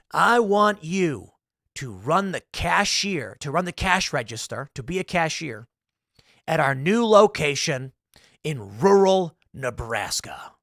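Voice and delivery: lightly voiced slow, deliberate recruiter; man on the phone. Corporate caller offers John a job, slow mock pitch. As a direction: make a drawn-out pitch, lightly acted. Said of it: "a man on the phone says".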